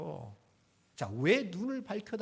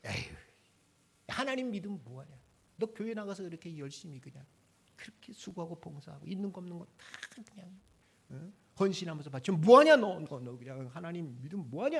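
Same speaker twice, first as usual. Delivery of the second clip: mocking jibe; 3 semitones lower, 5 dB louder than usual. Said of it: "한마디씩 쏘아대".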